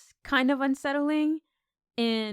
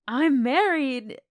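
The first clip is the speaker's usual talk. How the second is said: higher, louder imitation of an indignant yell; mock yell; 4 semitones higher, 5 dB louder, slower than usual. Pearl telling off the Scarecrow, mock yell. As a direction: draw it out as a retold yell. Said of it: "she yells at the Scarecrow".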